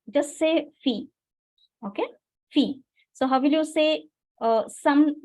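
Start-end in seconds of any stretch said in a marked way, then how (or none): 0.8-1.1 filles ending without any S; silent S in filles. Shown as a demonstration. Teacher says just say fille, S left silent. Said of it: "you don't have to pronounce S". 2.5-2.8 filles said as fille; silent S in filles. Shown as a demonstration. Teacher repeats for students, filles with silent S. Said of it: "you don't have to pronounce S".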